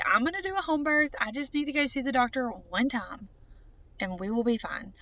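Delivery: mildly cocky, sure it will be easy; cocky attitude. Retold or imitated. Booking the doctor's appointment for a home birth, mildly cocky. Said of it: "with this cocky attitude".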